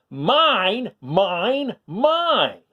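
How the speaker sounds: high, loud greedy roar; roaring Minosaur. A narrator's reading. Greedy dinosaur roaring to everyone, high and loud. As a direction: bellow it like a toddler dinosaur. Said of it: "he roared to one and all".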